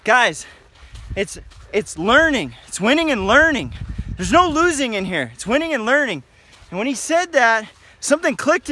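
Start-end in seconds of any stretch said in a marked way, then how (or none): 0.0-6.2 mildly raised, emphatic coaching voice; retold coach's yell. Assistant coach correcting the wrestling room, in a mild retold yell. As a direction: imitate a coach calling out, without a full shout. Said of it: "he yells out, he said".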